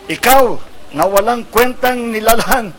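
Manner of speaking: loud, high accusing cry; angry monkey cornering the turtle. Acted. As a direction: scold the turtle like a furious monkey. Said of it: "Ang galit na sabi ng Matsing".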